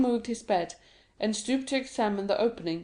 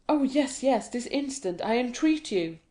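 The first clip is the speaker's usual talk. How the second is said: eager pleading; 3 semitones higher than usual. Acted. Dantès begs him to dig.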